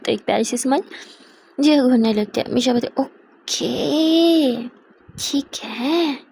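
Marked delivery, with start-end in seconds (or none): 3.0-6.2 tearful acted hurt. Misha apologizes to upset Jiya.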